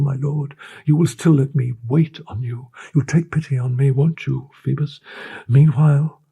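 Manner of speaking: high, impassioned, pleading declaration; passionate pleading. A narrator's reading. The girl offering herself to her captain, passionately pleading. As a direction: pour out devotion, begging.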